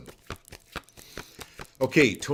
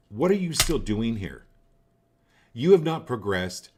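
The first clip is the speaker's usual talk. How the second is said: stern, louder order to a lingering spirit; commanding a spirit to leave, firm and loud; 4 dB louder than usual. Shown as a demonstration. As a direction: banish it with authority, no room to argue. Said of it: "in no uncertain terms".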